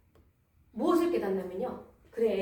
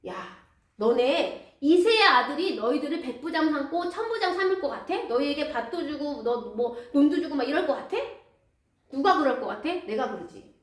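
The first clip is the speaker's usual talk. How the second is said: a raised, threatening king's voice; bully his servants into loyalty; 3 semitones higher, 3 dB louder than usual. Acted. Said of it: "막 협박을 합니다".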